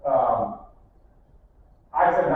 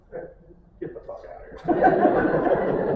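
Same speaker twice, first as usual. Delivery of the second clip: slow, laughing disbelief; much slower than usual. Retold or imitated. Salesman reacting to customers upset over the gong, laughing. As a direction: stretch it out, laughing. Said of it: "That's what you're saying".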